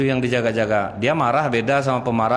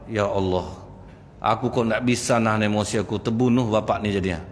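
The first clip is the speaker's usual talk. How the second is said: remorseful lament; 4 semitones lower than usual. Retold or imitated. Youth repenting after killing.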